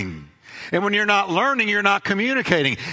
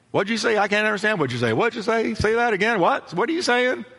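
slightly higher, baffled repeated questioning; mock confusion; 3 semitones higher than usual. Preacher acting out the Tower of Babel, mock confusion. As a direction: play someone who cannot understand.

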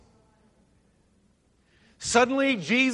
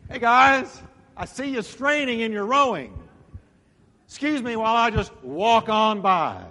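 lightly voiced, breezy passing greeting; a casual wave-off, mildly played; casual Jesus voice; 3 dB louder than usual. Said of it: "sort of like".

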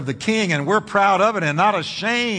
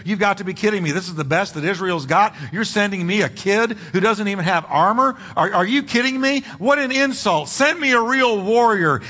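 mocking Goliath; 2 semitones higher than usual. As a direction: act out an insulted champion's taunt. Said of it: "he mocked him and hurled threats and insults".

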